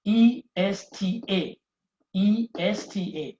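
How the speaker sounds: teacher spelling the ending for students; spelled out slowly. Shown as a demonstration. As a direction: spell it out letter by letter.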